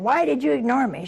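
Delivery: hurt friend's mildly indignant demand; mock accusation. Best friend on the phone demands why she was snubbed, mildly indignant. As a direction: accuse her like a wounded friend.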